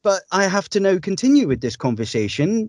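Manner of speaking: put-on awkward escape in a Scottish accent. Voice actor stuck faking a Scottish accent with a stranger, Scottish accent. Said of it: "I'd just start talking with a Scottish accent".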